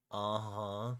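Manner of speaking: raccoon faking a human voice; raccoon attempt. Raccoon answering the German banker, imitating a human. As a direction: try human agreement through raccoon vocal cords. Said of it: "another squeaky raccoon attempt at vocalizing".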